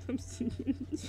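talking through giggles; cracking up. Real, not acted. Streamer supposed to be drawing for chat, cracking up. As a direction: break into a laugh, then carry on. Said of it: "You're fucking cracking me up".

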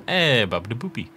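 a hint of mock-Italian babble; bad Italian accent. Player failing to do Italian for fun, badly faked Italian accent. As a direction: try a half-hearted fake Italian accent. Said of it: "Can't really do an Italian accent".

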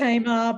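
"Tamar" as TAY-mah, Australian style, without a final r; Australian pronunciation. Shown as a demonstration. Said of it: "I'm Australian".

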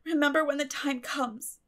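tearful, dramatic heartbreak; sobbing. A narrator's reading. Girl refuses dinner from guardian, sobbing. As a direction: sob it out theatrically. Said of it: "said Anne sobbingly".

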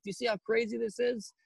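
retold exasperation without extra volume; exasperated appeal. Pleading mid-quarrel with crowd.

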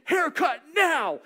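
slow loud order, high; officer's command. Retold or imitated. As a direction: bark the order, each word hammered.

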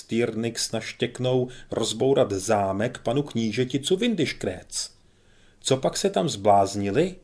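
a lightly voiced pompous major lecturing.

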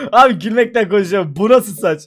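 usual speaking voice

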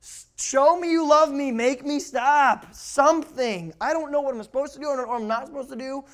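put-on high, loud plea from an exasperated kid; screaming rebellious kid. Rebellious kid begs parents for boundaries, loud screaming plea. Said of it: "A rebellious kid is screaming for boundaries".

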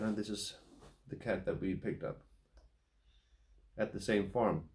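talking around pipe stem; pipe in mouth. Real, not acted. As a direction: lips gripping a pipe. Seen 4: pipe stem at lips until ~8s, then held away.

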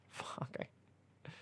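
whispered aside to self; a quick whispered swear; whispered curse. Real, not acted. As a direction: hiss the curse under your breath. Reader swears at own misreading.

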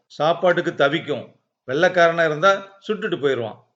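usual speaking voice

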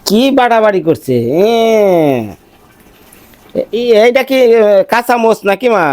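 high-pitched, real household call. Real, not acted. Asking mother where Akhi is, calling out.

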